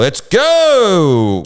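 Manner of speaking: high, loud impatient heckle; mock heckler. New York crowd heckling a comic, loud impatient yell. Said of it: "people are like".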